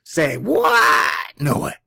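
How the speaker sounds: normal talking voice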